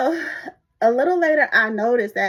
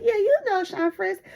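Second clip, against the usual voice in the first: gushing coworker; 10 semitones higher, 4 dB louder than usual. Retold or imitated. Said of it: "She said".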